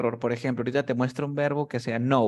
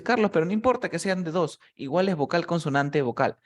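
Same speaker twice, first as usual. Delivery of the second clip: lightly voiced student objecting, higher at first; student's objection; 5 semitones higher than usual. Teacher voices student's likely objection, lightly imitated objecting student. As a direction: put the objection in a slightly raised voice. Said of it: "El de aquí tú dices".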